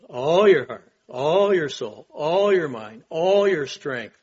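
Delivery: loud, building list, last line slowed; emphatic preaching. Acted. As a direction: hammer each all your like a pulpit climax.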